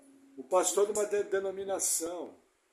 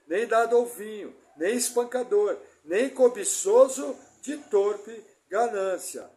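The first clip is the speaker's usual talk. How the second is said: declaimed Bible reading, louder and measured; scripture reading; 6 dB louder than usual. Acted. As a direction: read the verse with solemn weight. Reads scripture passage aloud. (leitura bíblica solene)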